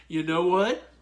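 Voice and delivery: slow, drawn-out defiant refusal; lightly voiced hero refusing; mock Moon Knight defiance. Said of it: "And Moon Knight goes".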